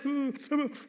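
hammed-up shuddering sobs; mock hiccuping cry; deep crying. Shown as a demonstration. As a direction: imitate breath-catching sobs. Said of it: "Y'all ever been crying like that?".

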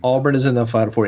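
quick, grinning delivery; smiling. Real, not acted. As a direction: say it through a wide smile. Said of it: "I cannot say that sentence without smiling".

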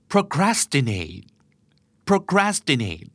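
procrastinate said slowly and clearly, stress on the second syllable; pronunciation model. Shown as a demonstration. Teacher showing listeners how to say procrastinate, careful pronunciation demo. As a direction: model the word procrastinate, drawn out and falling at the end. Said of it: "ออกเสียงนะครับ".

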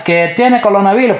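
mock Asian accent. Mock racist accent bit.

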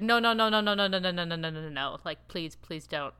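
imitating a panicked group shutting someone down; pleading refusal. Acting out the guys' collective refusal.

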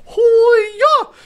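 very high, loud mock war whoop; battle cry. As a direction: shout a cocky military hoo-yah. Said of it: "the one guy is like".

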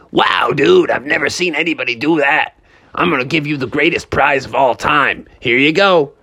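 lightly voiced impressed dude; amazed game attendant. Game runner to Froggy after the winning throw, impressed.

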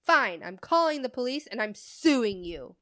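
loud mock outburst, slowing at the end; imitating an irate customer's threats; angry customer threat. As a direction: land the final threat loud and drawn out. Retold customer's threats after slamming counter.

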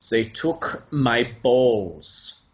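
put-on slow, solemn German accent. Retelling the old man's serious confession, German accent. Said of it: "so I can just hear that accent again".

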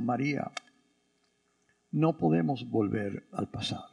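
low, soft, tender reassurance; quiet, compassionate low voice; gentle consoling. Acted. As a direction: console softly, voice dropped low. Voicing Jesus gently consoling Mary.

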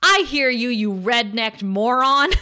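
a touch of Cordelia's defiance; mock defiant Cordelia. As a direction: spit the insult at him, half acted. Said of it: "gets up in his face and says".

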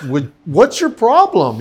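slow, indignant; irritated. Retold or imitated. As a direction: glare and complain. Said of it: "she looked at me like".

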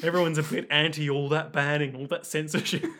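easygoing mock Liverpool accent; a singer. Singer on censorship, lightly imitated Scouse accent. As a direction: ramble on in put-on Scouse. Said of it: a thank-you addressed to the singer.

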